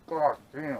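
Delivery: talking through a mouthful; words round a bite of burger; mouth full. Real, not acted. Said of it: "talk with my mouth full".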